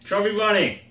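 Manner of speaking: cheeks stuffed full. Real, not acted. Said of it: "Leave them in your mouth".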